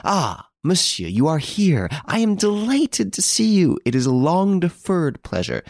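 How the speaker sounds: effusive, high-pitched welcome; much gusto. A narrator's reading. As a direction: gush with delight at greeting an honoured guest. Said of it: "exclaimed with much gusto".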